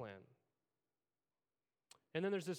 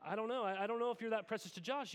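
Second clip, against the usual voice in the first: higher, louder and quicker; anxious Liz; 5 semitones higher, 4 dB louder, faster than usual. Retold or imitated. Liz doubting Josh's love, higher, faster and anxious. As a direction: fret it out fast and high.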